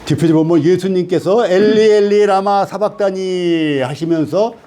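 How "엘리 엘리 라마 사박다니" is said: drawn-out cry, retold with restraint; imitated loud cry. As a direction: call it out in one long, sustained line. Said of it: "크게 소리 지르시고". (길게 끌며 외치는 흉내)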